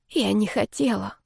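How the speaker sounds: timid falter before the raging dragon; babbling quietly. A narrator's reading. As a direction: plead meekly to calm a madman. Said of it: "пролепетала я".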